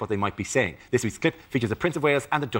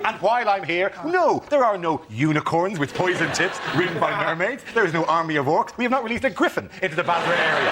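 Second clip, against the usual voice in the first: weary denial; 3 semitones higher than usual. Retold or imitated. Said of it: "weary tone of a man who's sick".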